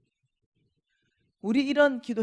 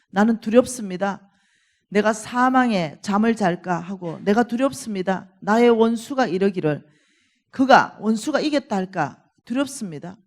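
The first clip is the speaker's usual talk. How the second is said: loud, declaimed psalm reading; preacher's emphatic Bible reading; scripture recitation; 6 dB louder than usual. Acted. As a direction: proclaim the psalm's lament to the congregation. Reads a psalm aloud to congregation.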